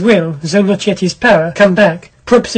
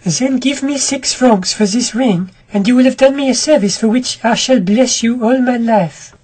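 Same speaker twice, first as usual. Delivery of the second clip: lightly voiced pleading woman; 4 semitones higher than usual.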